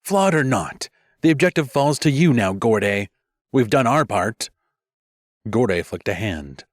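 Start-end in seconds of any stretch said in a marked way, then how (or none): 0.0-4.5 calm but edged. Acted. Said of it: "voice calm but edged".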